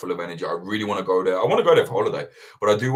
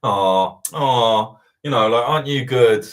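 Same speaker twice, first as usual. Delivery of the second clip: mock cooing; 2 semitones higher, 7 dB louder, slower than usual. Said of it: "I hate that attitude of".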